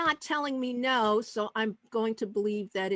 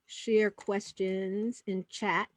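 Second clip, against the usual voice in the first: slow, softer word-by-word murmur; typing aloud; 3 dB quieter, much slower than usual. Real, not acted. Host typing a note for the audience, slowly aloud. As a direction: say it slowly as you type it. Reads out message being typed.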